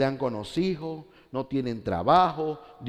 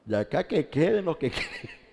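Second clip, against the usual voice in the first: scornful laugh; 4 semitones higher than usual. Retold or imitated. Mocks those who leave.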